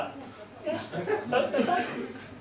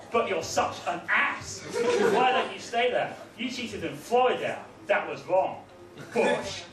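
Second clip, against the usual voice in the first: mock earnest poem. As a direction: recite it like a solemn schoolkid poem. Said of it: "It goes".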